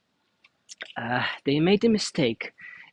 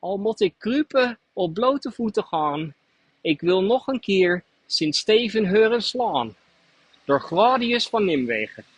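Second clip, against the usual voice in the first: a modest try at the Nijmegen Dutch dialect, lightly raised; local Nijmegen dialect; 4 semitones higher than usual. Retold or imitated. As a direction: recite it in the Nijmegen dialect as best you can. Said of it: "I'll try to do it in the local dialect".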